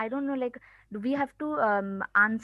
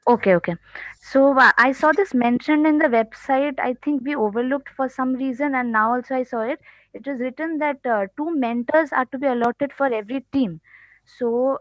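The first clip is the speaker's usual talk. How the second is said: louder, projecting into the mic; speaking louder; 6 dB louder than usual. Real, not acted. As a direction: speak up so they can hear. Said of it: "Please, uh, be louder".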